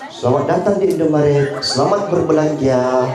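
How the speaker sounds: lightly imitated shop clerk's singsong welcome; a hint of scripted cashier; store clerk greeting. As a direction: recite a stock store greeting, drawing out the endings. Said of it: "Masa mau kali sama pegawai Alfamart".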